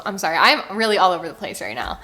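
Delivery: fast, jittery, over-caffeinated; too much caffeine. Real, not acted. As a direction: rattle it off wired on espresso. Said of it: "I am caffeinated right now".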